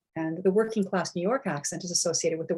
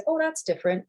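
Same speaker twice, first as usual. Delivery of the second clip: higher, lightly voiced surprised reaction; mock surprise; 10 semitones higher than usual. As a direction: playfully imitate a listener noticing a different accent. Reacting to an unfamiliar accent.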